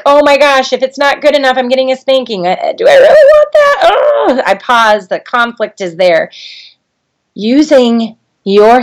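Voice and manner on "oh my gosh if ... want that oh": put-on high, anxious inner voice of a child, rising to a squeak; worried child. Child fearing a spanking, high anxious voice. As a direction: fret like a scared kid. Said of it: "who's like".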